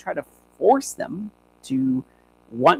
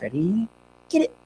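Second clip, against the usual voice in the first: higher, bright cue call; upbeat cue to the dog; 5 semitones higher than usual. Shown as a demonstration. Trainer cueing the puppy, upbeat release call. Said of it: "You're thinking".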